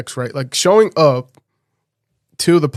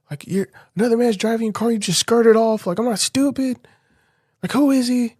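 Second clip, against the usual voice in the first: higher-pitched, fast, agitated retort; imitated outburst; 11 semitones higher than usual. Confronting his girlfriend on the phone, higher agitated outburst. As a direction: rattle off the accusations in a raised pitch.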